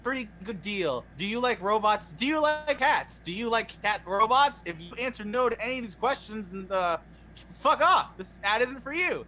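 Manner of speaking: hammed-up salesman projecting; fake ad read. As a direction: pitch it like a parody commercial. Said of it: "time for our fake ad of the day".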